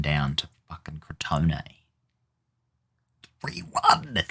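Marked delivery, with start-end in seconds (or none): 3.4-4.2 much higher disbelieving question; shocked. Real, not acted. Manager seeing the scoreline, shocked high question. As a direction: jump way up on three in shock. Shocked at conceding third goal.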